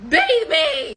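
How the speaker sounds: mild mock yell; insistent, half-yelled retold order; retold screamed demand. Drunk woman demanding a bath from him, mock yell. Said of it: "I was still screaming at him".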